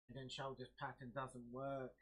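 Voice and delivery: slow, mock-dejected trader's complaint; lightly acted disappointment, words drawn out; crestfallen. Trading coach voicing the losing trader blaming the setup, crestfallen. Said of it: "they're, they're crestfallen".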